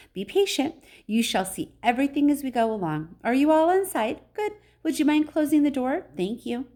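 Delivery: high, polite host; high-pitched storybook guide; excitable factory owner, reassuring. A narrator's reading. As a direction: usher them along in a high, courteous voice.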